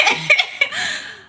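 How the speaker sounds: high burst of laughter; laughing. Real, not acted. Reading funny usernames, high burst of laughter. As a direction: crack up at the usernames.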